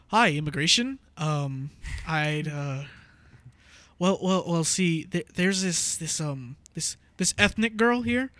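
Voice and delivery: lightly voiced hesitant white caller; stammering mock-earnest white-guy impression. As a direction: fumble politely through a mock complaint. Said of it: "I'll put on my white voice".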